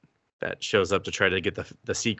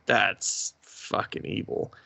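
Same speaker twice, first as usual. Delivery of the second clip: hushed aside; 6 dB quieter, slower than usual. Retold or imitated. Reacting to a grim anime plot.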